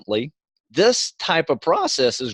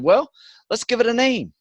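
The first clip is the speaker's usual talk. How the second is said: put-on gentle voice for a child; 3 semitones higher than usual. Father soothing kids after bad dream.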